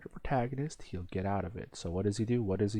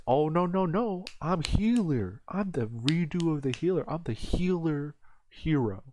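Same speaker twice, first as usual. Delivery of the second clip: gloating villain; 7 semitones higher than usual. Retold or imitated. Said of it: "But he says".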